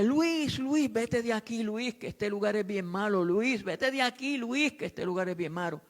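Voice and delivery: high, slow ghostly warning; lightly voiced old woman pleading him to leave; a hint of a trembling old woman; old woman's warning. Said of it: "Y me dice".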